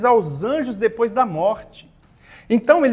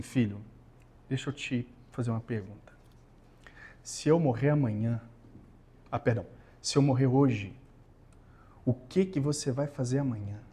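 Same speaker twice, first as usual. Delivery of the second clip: retold father; 6 semitones lower, 6 dB quieter than usual. Father's grave question, retold.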